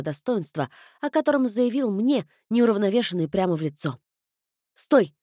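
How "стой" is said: loud higher shout; calling out. Acted. Girl shouting after the departing guest, loud. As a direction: call after him to stop. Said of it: "крикнула этому Тиаго".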